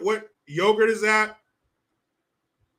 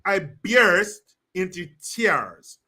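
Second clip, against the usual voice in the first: mock fake crying; 6 dB louder, much slower than usual. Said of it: "That's how you talk like these fucking idiots".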